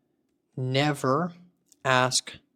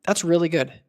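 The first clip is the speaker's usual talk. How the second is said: pleased; 4 dB louder than usual. Real, not acted. Agent ended call well.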